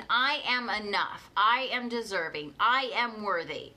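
affirmation. Shown as a demonstration. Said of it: "Say it with me".

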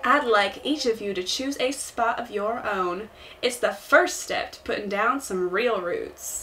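smooth Southern host reassuring newcomers; Tom Nook. Acted. Promising support to new islanders, smooth Southern accent. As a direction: deliver the sales patter in a Southern accent. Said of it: "The Southern accent is supposed".

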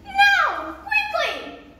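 high, loud snapping order; sharp command. Acted. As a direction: hurry her up harshly. Stepmother snaps final order.

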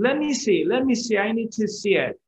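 acted impatient begging; persistent. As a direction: pester eagerly, rushing the words. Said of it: "he's very persistent".

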